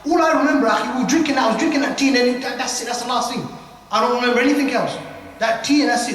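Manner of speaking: lightly acted baffled insistence; insistent confused witness. Acting out confused man recalling his blackout.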